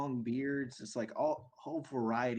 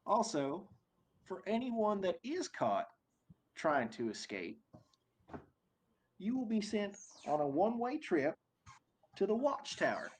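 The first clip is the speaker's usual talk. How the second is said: much higher, booming overseer announcement; big booming voice; 9 semitones higher than usual. Acted. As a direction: boom it out like a smug overlord. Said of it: "big booming voice".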